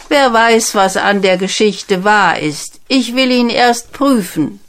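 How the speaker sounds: a king doubting the tale; lightly voiced wary king; suspicious king. King's doubtful thought.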